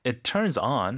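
"it turns on" in a conceding tune; meaningful intonation. Shown as a demonstration. Teacher showing the intonation matters, conceding tune. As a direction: say "it turns on" as if a but follows. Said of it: "여기서 억양이 중요한 게".

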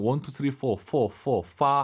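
포 and 파 started with an English F; F practice drill. Shown as a demonstration. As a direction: count up to 포, repeat its F, then land on 파. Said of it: "팁을 약간 드리면".

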